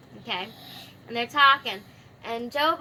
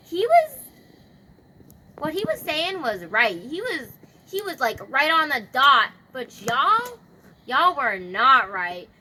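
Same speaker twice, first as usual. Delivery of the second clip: mock anger; 4 dB louder than usual. God rebuking Job's supposed friends, acted indignation. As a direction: imitate God scolding, punching key words. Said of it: "he's mad at Job's supposed friends".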